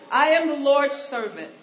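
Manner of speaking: loud, laughing proclamation; laughing Mary. Pretend. Preacher voicing Mary's reply loud and laughing. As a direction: belt it out through a laugh.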